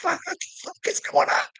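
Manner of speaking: shrill falsetto whisper of shock; squeaky high disbelief. Retold or imitated. Father mocking his own shock at the son's claims, high whispered squeak.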